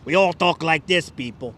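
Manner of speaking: put-on thick Brooklyn accent; exaggerated Brooklyn accent demo. Shown as a demonstration. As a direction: show off how Brooklyn talks. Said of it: "they all sound like Dutch".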